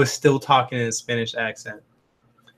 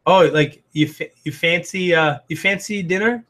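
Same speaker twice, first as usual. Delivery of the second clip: light mock British accent, a bit higher; imitating British accent; 4 semitones higher than usual. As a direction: play Nick's British turn of phrase, lightly. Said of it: "he said the funniest things".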